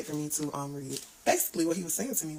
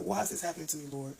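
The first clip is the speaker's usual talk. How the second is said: mock desperate plea, quickening in places; retold crying out. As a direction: imitate pleading with God, pitch jumping up at moments. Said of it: "where I've cried out to God".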